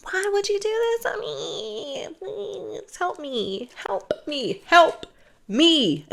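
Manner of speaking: high, tearful begging that breaks to a whisper; mock crying plea. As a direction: sob it out, then whisper.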